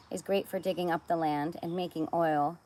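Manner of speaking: reading the wrong word; misreading soil as oil; slip of the tongue. Real, not acted. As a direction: misread line. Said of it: "bad Freudian slip there".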